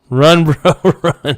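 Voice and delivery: half-laughing shout of run bro; laughing yell. Real, not acted. Streamer joins the yelling, laughing.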